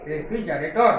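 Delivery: slow broken-up pronunciation. Shown as a demonstration. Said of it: "এইভাবে ভেঙে ভেঙে আস্তে আস্তে উচ্চারণ করবে".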